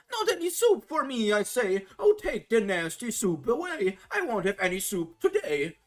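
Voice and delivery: put-on a weak boy still shouting at his soup; crying out stubbornly. A narrator's reading. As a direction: yell it like a stubborn child. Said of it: "the naughty fellow cries out still".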